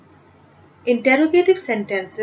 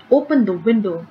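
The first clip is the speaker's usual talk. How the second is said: forceful command; faster than usual. Shown as a demonstration. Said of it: "given with lot of force".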